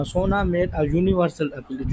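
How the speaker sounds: each word of uniform on Wednesday drawn out; slow dictation. Shown as a demonstration. Teacher reading the example to students, slowly. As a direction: spell it out slowly for the class.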